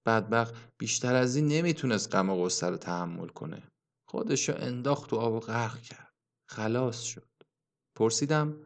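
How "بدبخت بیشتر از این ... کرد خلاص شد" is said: murmuring. Acted. Old man murmuring to the narrator about the drowned youth, hushed. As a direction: murmur it sadly to himself. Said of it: "زمزمه کنان گفت".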